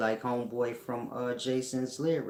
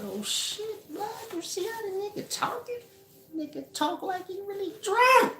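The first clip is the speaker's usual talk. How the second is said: laughing. Retold or imitated. Retelling his reaction while laughing.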